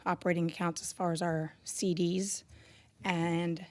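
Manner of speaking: hoarse, worn voice from cheering. Real, not acted. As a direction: voice still hoarse from hollering. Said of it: "excuse my voice".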